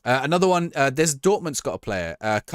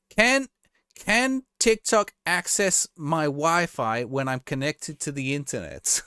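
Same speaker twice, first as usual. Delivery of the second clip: much higher, very slow puzzled question; clueless senator; 5 semitones higher, slower than usual. Retold or imitated. Streamer mocks a senator asking TikTok about Wi-Fi, slow and baffled. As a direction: stretch it out like a baffled senator who doesn't get tech. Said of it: "there was one was like".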